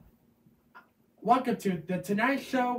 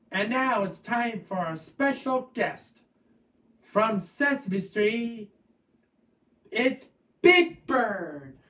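announcer; slower than usual. Pretend. Kid announcing special guest.

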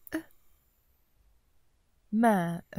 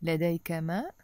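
لديك ماء rising on ماء; question tune; much faster than usual. Shown as a demonstration. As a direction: ask it just by lifting ماء. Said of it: "We simply say".

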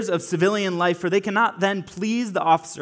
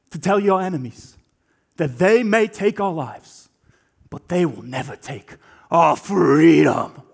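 William Wallace rallying speech. Retold or imitated. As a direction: rouse frightened soldiers to stand and fight. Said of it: "And he says".

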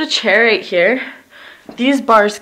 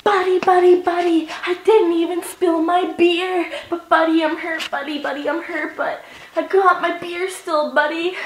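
put-on drunk fall; 6 semitones higher than usual. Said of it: "And I'd be like".

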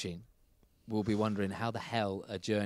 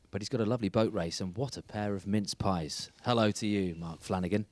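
punchy presenter read, louder than chat; scripted show intro; 4 dB louder than usual. Acted. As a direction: deliver a rhyming-slang intro like a show host. Host reads scripted show intro.

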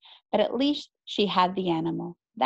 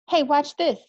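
higher, louder show-off yell; yelled across the street; 6 semitones higher, 5 dB louder than usual. A narrator's reading. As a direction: call out to show off a trick. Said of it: "Marcos yelled from across the street".

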